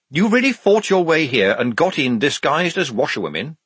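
amazed questioning. A narrator's reading. Reporter hearing Polly's amazing story, high and incredulous. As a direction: ask in amazement, pitch lifted.

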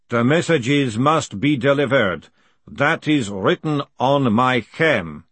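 slow, solemn golem speech. Acted. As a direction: speak like a patient ancient golem. Golem speaks slowly.

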